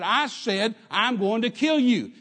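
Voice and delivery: imitated gunman insisting, loud and high; screamed threat. Gunman yanking the driver's collar, screamed threat. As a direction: repeat the threat forcefully, slowing on the last words. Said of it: "he screamed at me".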